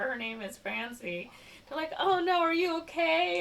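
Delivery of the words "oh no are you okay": high cooing fake concern; fussing mock parent. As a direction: imitate an anxious parent on a call. Acted worried parent on phone.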